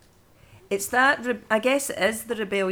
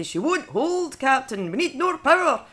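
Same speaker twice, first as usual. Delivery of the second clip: hammed-up Scottish engineer, much higher and louder; over-the-top Scottish; 8 semitones higher, 4 dB louder than usual. Shown as a demonstration. Voice actor demoing the Scotty line in Scottish accent. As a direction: push the Scottish accent into a bad impersonation. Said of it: "It has to be".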